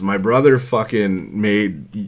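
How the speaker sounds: loud, high, laughing through it; half laughing, half shouting the excuse; laughing bro excuse. Retold or imitated. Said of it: "So it's like".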